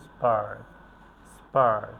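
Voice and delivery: "স্পার্ক" with no puff on the P; unforced P after S. Shown as a demonstration. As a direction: keep the P after S unaspirated in "স্পার্ক". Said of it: "এক্ষেত্রে জোর দেই না". ("স্পার্ক"-এ "প"-তে জোর ছাড়া)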